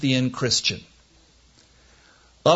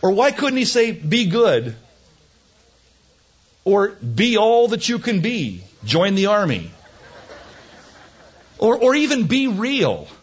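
mock exasperation; 7 semitones higher than usual. Mock-complains about Paul's wording.

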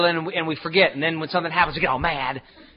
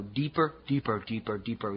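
fading away; 5 semitones lower, 6 dB quieter than usual. Shown as a demonstration. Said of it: "trailing off into woods".

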